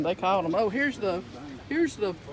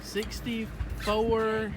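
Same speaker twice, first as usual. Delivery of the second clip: drawn-out echo; much slower than usual. Real, not acted. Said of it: "Right now the water is sixty-four and a half".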